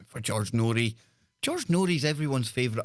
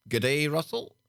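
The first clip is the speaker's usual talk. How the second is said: put-on Aussie greeting; Australian accent; 3 semitones higher than usual. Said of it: "I put on an Australian accent".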